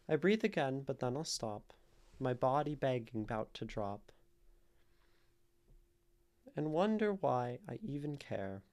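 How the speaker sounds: measured poetry recital with pauses between lines; lilting verse reading, lines easing downward at the ends; poem reading. Real, not acted. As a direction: read the rhyming verse aloud, letting each line settle. Reads a viewer's poem aloud.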